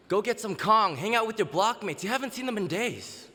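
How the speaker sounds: high, loud, excitable squirrel egging someone on; pet squirrel. Acted. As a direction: burst out high and urgent, tempting them away from work. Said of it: "that little squirrel climbs out".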